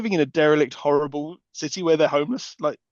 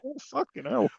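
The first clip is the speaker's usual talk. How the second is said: high thrown-up wail; mock Katie exclamation; 10 semitones higher, 5 dB quieter than usual. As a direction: squeal it like a hurt kid.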